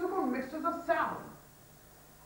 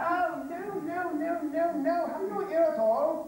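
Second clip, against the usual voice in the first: exasperated; 5 semitones higher, 3 dB louder, slower than usual. Acted. Exasperated teacher.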